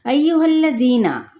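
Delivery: tajweed recitation of अय्युहल्लज़ीना; Quranic recitation. Shown as a demonstration. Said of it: "अब यहाँ पे हमने क्या करना है".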